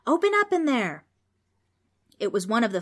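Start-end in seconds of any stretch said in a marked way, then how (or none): 0.1-1.0 loud, high-pitched bellowed demand; booming call. A narrator's reading. Demon calls out at the front door, booming. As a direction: boom it through a closed door. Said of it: "a booming voice called out".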